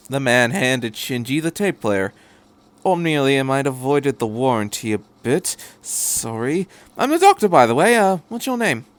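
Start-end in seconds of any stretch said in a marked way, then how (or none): 2.9-8.9 chatty Doctor. Acted. The Doctor rambling to Shinji about the tape, chatty. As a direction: babble happily about gadgets.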